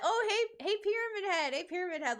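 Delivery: high, eager fan greeting; excited fan call. Retold or imitated. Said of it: "I got that all day".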